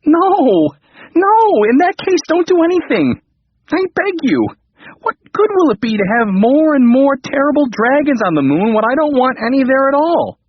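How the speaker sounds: high, loud frantic begging; frantic pleading. Acted. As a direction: beg in panic. King begs frantically.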